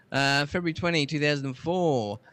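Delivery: slightly lifted, measured reading voice; presenter reading a history bulletin; read-out history item. Acted. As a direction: read out the date and entry deliberately. Reads out tech history item.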